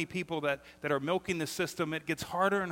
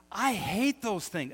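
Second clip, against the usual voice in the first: slow, higher exasperated complaint; 4 semitones higher, 3 dB louder, slower than usual. Real, not acted. Pastor griping about hanging curtains, exasperated. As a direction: let the frustration drag out. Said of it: "hates curtain doodads".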